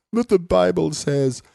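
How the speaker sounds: put-on high-pitched kid insisting; imitated arguing child. Voices daughter arguing back.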